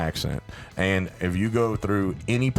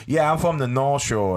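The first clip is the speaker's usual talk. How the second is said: imitated North Shore accent, pitched higher; mock North Shore, New Orleans accent; North Shore drawl; 5 semitones higher than usual. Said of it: "they have that real drawl".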